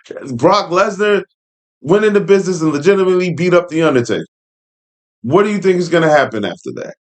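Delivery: scoffing at the idea that Lesnar went into business; incredulous. Real, not acted. Incredulous at Heyman's claim.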